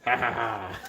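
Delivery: slow fake ha ha ha; deliberate spelled-out laugh; mock laugh.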